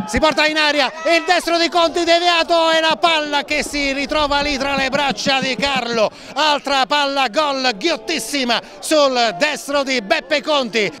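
rising excitement over a near miss; excited commentary. Real, not acted. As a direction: lift the voice as the chance builds.

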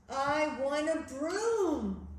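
loud, slow storybook demand; insistent demand. Acted. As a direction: draw out the wanting like a little witch. Witch demands broom in story.

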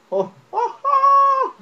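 rising excited oh oh oh; high, loud burst of delight; excited shout. Real, not acted. Excited cry at the game.

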